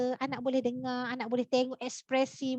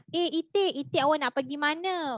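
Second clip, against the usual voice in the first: character voice; 3 semitones higher than usual. Shown as a demonstration. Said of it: "sebagai contohlah".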